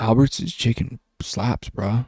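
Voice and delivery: lightly voiced haughty duchess; a hint of a soft-spoken grand lady; Duchess impression. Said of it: "That was a terrible Duchess impression".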